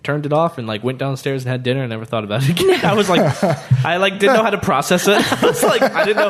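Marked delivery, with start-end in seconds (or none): 2.8-6.3 giggling through the words, pitched up; high laughing retelling. Real, not acted. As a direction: laugh it out, half embarrassed. Laughing at his own lost save.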